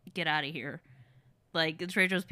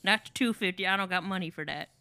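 understated mock-Southern twang; Southern accent; 4 dB quieter than usual. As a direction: play a Southern truck owner lightly. Continuing Southern truck bit.

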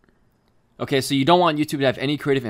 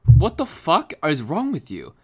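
outraged shout; 4 semitones higher, 7 dB louder, slower than usual. Retold or imitated. Outraged reply to hater.

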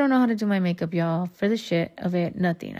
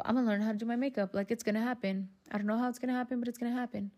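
quiet determined vow; 3 semitones higher, 9 dB quieter, much faster than usual. Retold or imitated. Resolution told to herself.

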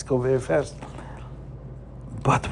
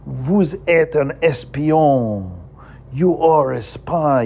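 accusing Napoleon; 3 semitones higher, slower than usual. Acted.

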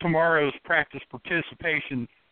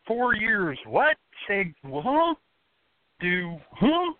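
baffled disbelief; 7 semitones higher, much slower than usual. Retold or imitated. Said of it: "I was like".

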